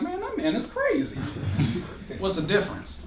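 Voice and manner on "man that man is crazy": laughing. Retold or imitated. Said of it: "they're like".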